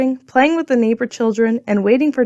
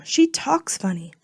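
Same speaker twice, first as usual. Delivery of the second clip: put-on a child's loud whisper, softer and slow; 4 semitones higher, 6 dB quieter, slower than usual. A narrator's reading. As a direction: whisper it loudly, slowly, to mom. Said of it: "Diane whispered loudly to Mom".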